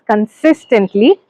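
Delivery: consistently said slowly and deliberately; stress on consistently. Real, not acted. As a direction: lean on the word consistently, drawing it out. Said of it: "pay attention to my stress".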